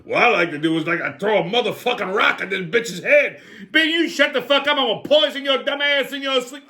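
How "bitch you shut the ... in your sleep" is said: put-on angry old man. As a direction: bark insults at a rival. Angry character again.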